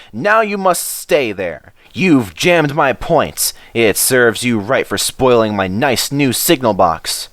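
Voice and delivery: signalman blowing up at the engine; stormed. Acted. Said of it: "he stormed".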